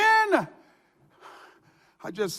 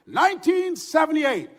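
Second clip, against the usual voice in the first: a hint of on-air DJ announcing; lightly voiced broadcast to listeners; radio announcement; 3 semitones higher than usual. DJ telling his radio audience he was fired, lightly voiced on-air read. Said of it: "I opened up the microphone".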